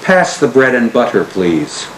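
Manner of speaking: ordinary talk, nothing marked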